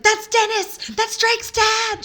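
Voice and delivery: high, loud, slowed squeal of excitement; freaking out at spotting him; retelling a breathless squeal of recognition; excited squeal. Retold or imitated. Frantic retold excitement.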